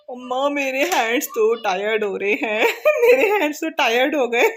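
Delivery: put-on high, laughing kid voice complaining; child's whine. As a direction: whine like a tired little boy. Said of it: "बस क्या ना, हमने बोला हाथ खड़े ऊपर करो".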